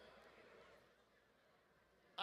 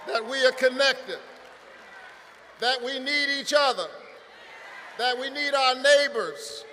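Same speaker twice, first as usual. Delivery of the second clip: rising preacher's cadence, louder as it builds; pastor's rally sermon; preaching; 3 dB louder than usual. Real, not acted. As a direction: preach it to the congregation.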